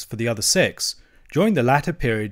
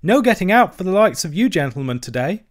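higher-pitched, earnest youngster; small creature's raised, respectful voice; young hedgehog; 7 semitones higher, 5 dB louder than usual. A narrator's reading. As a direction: report it like a deferential country lad. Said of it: "said the hedgehog".

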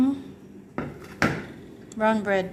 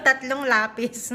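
laughing; 3 semitones higher than usual. Real, not acted. Laughing about sending pencils.

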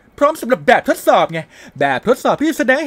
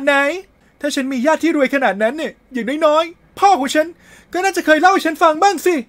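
put-on higher, insistent young girl voice; a lightly voiced schoolgirl refusing to believe it; heroine voiced higher; 6 semitones higher, 4 dB louder than usual. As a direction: denial from a girl in a game. Reads heroine's lines in a voice.

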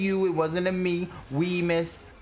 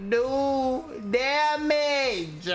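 indignant rant; 9 semitones higher than usual. Real, not acted. Berating teammate over voice chat.

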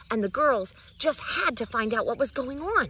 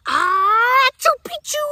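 loud, much higher sneeze-spoken password; half-sneezed word; 13 dB louder, slower than usual. Acted. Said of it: "half sneezed, half spoke".

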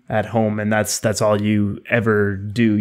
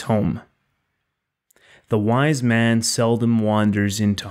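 poem reading. Acted. Reads the poem aloud.

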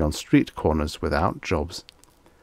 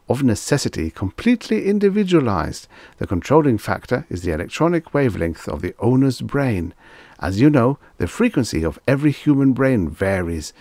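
higher, fast nervous explanation; babbling salesman; 3 semitones higher than usual. Acted. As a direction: rattle on like a fussy clerk.

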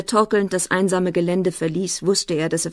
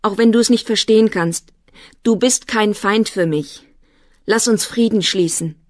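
raised, louder earnest plea; higher, pleading with an opponent; trembling voice; 4 semitones higher, 5 dB louder than usual. A narrator's reading. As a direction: appeal for peace with mild agitation. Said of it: "Seine Stimme zitterte".

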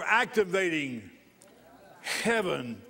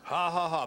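demonstrated laugh. Shown as a demonstration. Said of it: "you laugh harder".

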